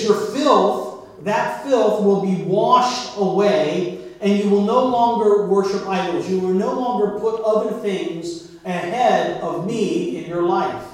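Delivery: slow, weighty reading of the verse; solemn scripture reading, drawn out. Acted. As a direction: read it out like a proclamation. Reads Ezekiel passage.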